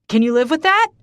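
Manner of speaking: loud, high furious roar; bellowed, enraged question. Acted. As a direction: roar the accusation at her. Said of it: "he roars".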